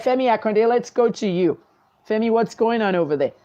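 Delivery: anchor reading breaking news; newscast demo. Shown as a demonstration. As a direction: deliver it like a live TV news anchor. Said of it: "I just did a newscast for you now".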